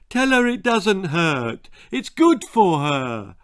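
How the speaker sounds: insistent, voiced-up dad; dismissive father. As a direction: brush off the child's pain. Father brushes off baby's pain.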